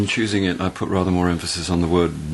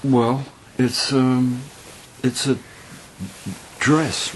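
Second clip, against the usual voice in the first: halting, higher-pitched, full of ums; sheepish, stop-start delivery in a raised voice; awkward hesitation; 5 semitones higher, much slower than usual. Acted. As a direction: stall before admitting what the gift is. Awkwardly presenting a gift.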